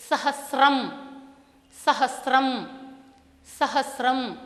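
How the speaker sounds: सहस्रम repeated with a clean स्र and no t; correct pronunciation. Shown as a demonstration. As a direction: drill सहस्रम carefully, स straight into र. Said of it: "शुद्ध उच्चारण के लिए". (सहस्रम – शुद्ध अभ्यास)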